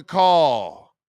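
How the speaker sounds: slow, solemn invocation; grand rich voice. Pretend. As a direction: call to the heavens slowly. Calling the oracle from above.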